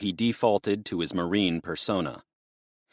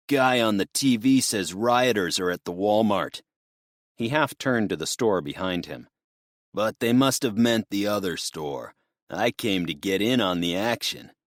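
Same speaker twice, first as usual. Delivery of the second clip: wired twitchy addict; unhinged junkie voice. Acted. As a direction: talk like a jittery drug user. Drugged robber talking.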